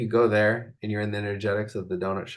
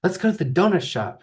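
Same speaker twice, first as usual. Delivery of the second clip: voicing Shelly; 8 semitones higher than usual.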